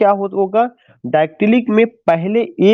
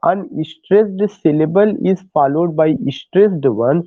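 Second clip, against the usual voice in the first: slow dictation; much slower than usual. Shown as a demonstration. Teacher dictates definition.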